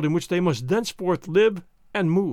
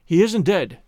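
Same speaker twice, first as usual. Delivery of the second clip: calling; 4 dB louder, slower than usual. Acted. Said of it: "she called to Hans".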